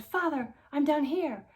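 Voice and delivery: high, loud shriek for help. Acted. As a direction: shriek so they hear you from below. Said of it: "I shrieked so loudly".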